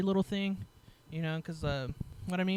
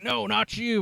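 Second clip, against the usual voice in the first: imitated correction; 5 semitones higher, 4 dB louder than usual. Retold officers correcting the wrong people.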